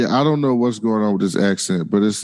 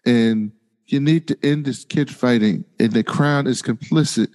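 slow mock foreign accent; measured villain-like put-on accent; Mysaria's bad accent. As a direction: imitate a bad accent, haltingly. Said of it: "it's a bad accent".

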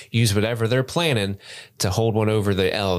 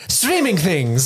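slow, drawn-out silly voice; 6 semitones higher, slower than usual. Pretend. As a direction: stretch it out in a goofy put-on voice. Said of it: "Do the voice".

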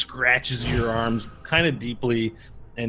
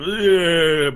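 zombie moan; 6 semitones higher, 8 dB louder than usual. Shown as a demonstration. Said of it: "is filled with the cry".

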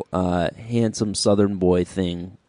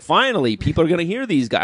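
excited; 6 semitones higher than usual. Retold or imitated. Retelling relief at band's breakthrough.

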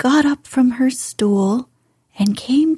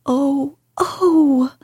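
high, delighted gasps of joy; delighted cry; 6 semitones higher than usual. A narrator's reading. Colin hearing Dickon will bring his creatures, delighted high cry. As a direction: let the joy burst out high. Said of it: "Colin cried out in delight".

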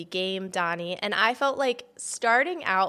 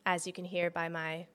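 hoarse, worn voice; gravelly voice; 2 semitones lower, 4 dB quieter than usual. Real, not acted. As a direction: talk through a rough throat. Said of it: "my gravelly voice".

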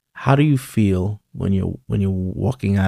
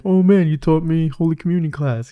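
higher-pitched imitation of a thrilled former pupil; excited recognition; 7 semitones higher than usual. Former pupil greeting his communion teacher, excited imitation. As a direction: gush like a big guy meeting his old teacher. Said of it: "He's like".

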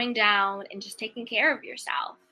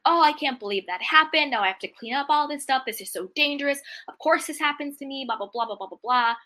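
mock victim whining; 4 semitones higher than usual. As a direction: play the self-pitying complainer, a bit hammed-up. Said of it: "having a victim mentality and being like".

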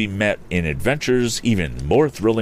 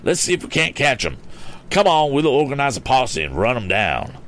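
higher-pitched, excitable gentleman; eager Mister Damon; 8 semitones higher than usual. A narrator's reading. Mister Damon wants a posse, high eager voice. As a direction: urge them on, pitch raised.

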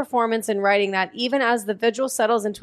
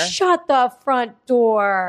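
shocked disbelief; 4 dB louder, much slower than usual. Real, not acted. Gasp of disbelief.

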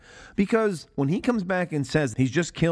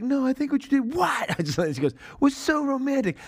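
much higher light woman's voice; imitating Alabama; 11 semitones higher than usual. Retelling Alabama's reply, high girlish imitation. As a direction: lift into a sweet girlish voice. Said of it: "And, and she's like".

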